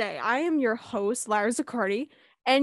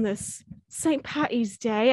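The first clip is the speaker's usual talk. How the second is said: put-on accidental British accent; slower than usual. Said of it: "I don't know why I said that British".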